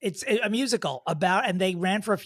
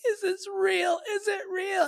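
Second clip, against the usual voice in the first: imitating shocked mother; 13 semitones higher than usual. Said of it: "the mother's like".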